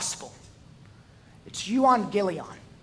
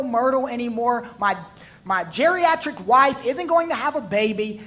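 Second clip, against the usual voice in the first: raised, higher protest to the angel; indignant old priest; 4 semitones higher, 6 dB louder than usual. Acted. Zechariah protesting to Gabriel, raised and higher. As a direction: complain louder and higher, refusing to believe. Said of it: "Zechariah tells Gabriel".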